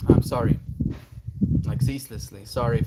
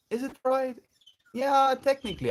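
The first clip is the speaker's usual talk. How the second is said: wondering aloud; 13 semitones higher than usual. Real, not acted. Questioning herself aloud.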